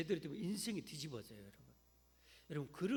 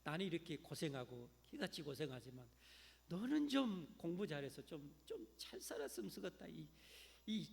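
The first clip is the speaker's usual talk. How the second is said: nagging mother; 4 dB quieter than usual. Retold or imitated. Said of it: "하면서 그렇게 잔소리하면".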